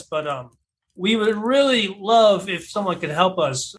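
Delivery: mild yell to anyone who might hear; calling out. Acted. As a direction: call out for help, settling toward normal volume. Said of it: "I just yell out real quickly".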